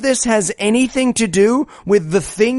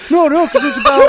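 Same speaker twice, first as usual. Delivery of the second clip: mock whiny protest; 9 semitones higher, 4 dB louder, faster than usual. Acting out Ted protesting.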